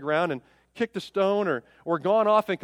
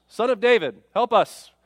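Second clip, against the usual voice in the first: louder call, pleading but not full voice; retold cry for help; 3 semitones higher, 6 dB louder than usual. Blind men calling to Jesus, a mock cry. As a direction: call out to be heard by a passing healer. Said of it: "the blind men cry out to Jesus".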